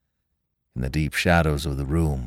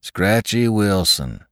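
in chorus; 3 semitones higher, slower than usual. Acted. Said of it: "they answered in chorus".

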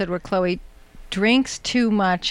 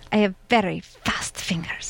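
breathy whispered voice of a singer; impression of a singer. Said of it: "And then she goes".

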